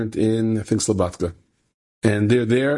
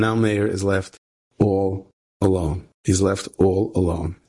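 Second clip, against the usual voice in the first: forlorn; 3 semitones lower, slower than usual. Real, not acted. Narrating a friend abandoned.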